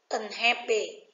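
"unhappy" with the beat on HAP; second-syllable stress. Shown as a demonstration. Teacher giving students the answer, second-syllable stress on "unhappy". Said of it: "Dấu nhấn vào phần thứ hai".

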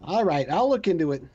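bad Boston accent, lightly done. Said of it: "my horrible Boston accent".

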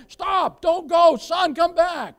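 put-on high, loud cry to stop a child; desperate shout; urgent scream. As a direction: yell to stop a child from the road. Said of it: "you would scream with all that you had".

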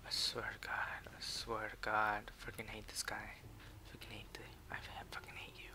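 very quiet, whispery seething; muttered hatred. Real, not acted. Gamer cursing another player to himself, muttered hatred. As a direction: curse under your breath.

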